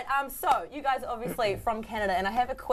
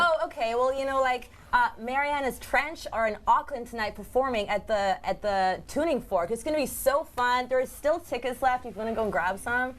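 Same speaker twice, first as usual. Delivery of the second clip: put-on Canadian accent. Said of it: "two sentences in, in Canadian accent".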